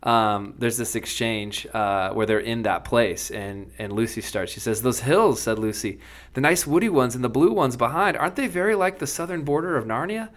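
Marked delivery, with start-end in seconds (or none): 4.8-10.3 story reading. A narrator's reading. Host reading C S Lewis to his co-hosts, lively storyteller voice. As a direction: bring the Narnia scene to life for listeners. Reads Narnia passage aloud.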